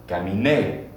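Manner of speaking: Caminé with the stress on the final é; model for repeating. Shown as a demonstration. Teacher models caminar conjugation for class, stressing the final é. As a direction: say Caminé clearly so students can echo it. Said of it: "Repeat after me".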